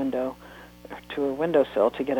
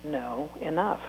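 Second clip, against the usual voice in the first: calm firm mother; 4 dB quieter, slower than usual. Acted. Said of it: "Annie said calmly".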